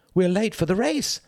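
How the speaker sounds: high, hurried badger call; urgent cry. A narrator's reading. Mister Badger rousing Mouse for the race, urgent high cry. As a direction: cry out in high-pitched alarm. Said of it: "cried Mister Badger".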